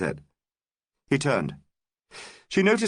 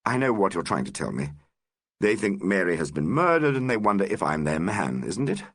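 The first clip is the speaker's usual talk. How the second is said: very calmly; 5 semitones lower than usual. Acted. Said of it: "Richard said very calmly".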